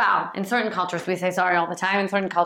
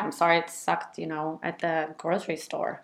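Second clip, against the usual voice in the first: understated sympathy, getting softer; empathizing; 3 semitones lower, 6 dB quieter than usual. Shown as a demonstration. Partner sympathizing about the grocery store, empathizing. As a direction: sympathize softly without taking blame. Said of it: "is lowercase sorry".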